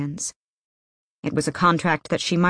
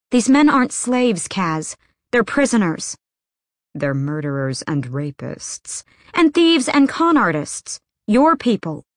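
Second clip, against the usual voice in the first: heated protest; 4 semitones higher than usual. Acted. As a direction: throw each accusation at him harder. Nina arguing with Kaz.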